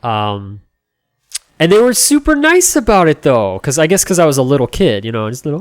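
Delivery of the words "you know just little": usual speaking voice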